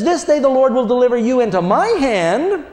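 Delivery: high, forceful defiance; high fearless challenge; in his face. Retold or imitated. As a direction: throw it at the giant. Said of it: "He says".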